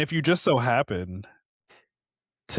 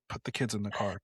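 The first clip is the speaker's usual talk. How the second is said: hushed alarm; 6 dB quieter, faster than usual. Acted. Wary parent spotting an American, hushed alarm. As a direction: say it under your voice, mock-alarmed. Acted locals fleeing from Americans.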